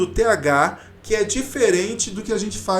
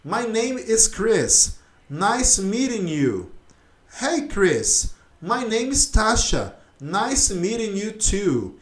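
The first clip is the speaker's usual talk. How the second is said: slow textbook dialogue; 2 semitones higher, slower than usual. Shown as a demonstration. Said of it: "a gente fala assim, ó".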